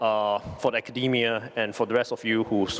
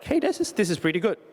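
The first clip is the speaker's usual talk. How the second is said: excited; 8 semitones higher than usual. Retold or imitated. Speaker quotes own reaction.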